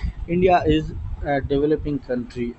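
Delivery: each word of uniform on Wednesday drawn out; slow dictation. Shown as a demonstration. Teacher reading the example to students, slowly. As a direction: spell it out slowly for the class.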